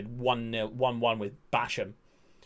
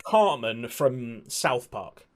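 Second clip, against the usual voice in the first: drawn out; much slower than usual. Shown as a demonstration. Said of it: "when I say baby voice".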